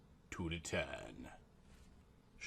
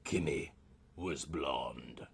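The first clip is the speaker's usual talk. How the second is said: whispered aside; 10 semitones lower, 10 dB quieter, slower than usual. A narrator's reading. Snide aside in narration.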